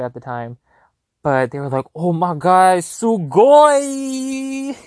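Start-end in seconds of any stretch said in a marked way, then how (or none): 2.0-4.8 high, loud excited squeal; excited shout. Retold or imitated. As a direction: shriek it in delight. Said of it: "Sorry, that was kinda loud".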